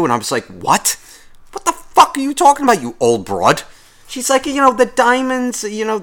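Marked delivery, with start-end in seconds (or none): 0.5-3.6 mock outraged retort. Imagined angry retort. 4.5-6.0 mock high old lady. Imitating the old woman.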